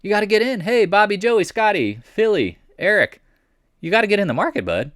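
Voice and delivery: high, hyped-up salesman pitch; pushy market maker. Retold or imitated. Market makers luring retail traders in, high hyped-up pitch. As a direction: sell it like a hustler herding buddies into the market. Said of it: "Pushing this narrative".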